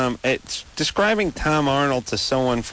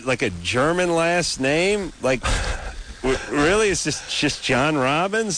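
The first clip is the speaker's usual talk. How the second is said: incredulous; 5 semitones higher than usual. Real, not acted. Incredulous rant about casting.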